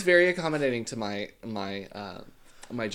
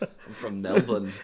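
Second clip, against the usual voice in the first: laughing; 4 semitones lower than usual. Pretend. Repeating the line, laughing.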